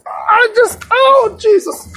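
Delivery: high, squeaky laughing fit; helpless laughter breaking up the words; cracking up. Real, not acted. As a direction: barely get it out through real laughter. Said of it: "I'm sorry, I thought that was funny".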